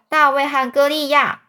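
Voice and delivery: blurted out loud and high; loud answer. Acted. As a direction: shout the guess out boldly. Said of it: "这个汤姆就很大声说".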